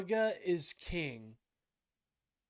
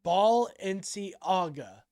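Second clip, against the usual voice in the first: louder rushed copy of his words; quick imitation; 6 dB louder than usual. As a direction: rattle it off like he did. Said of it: "he said that really quick".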